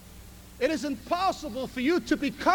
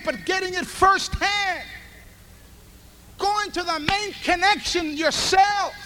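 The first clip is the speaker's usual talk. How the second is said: preaching at full force; 5 semitones higher, 5 dB louder than usual. Acted. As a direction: drive the point home firsthand. Preaching climax.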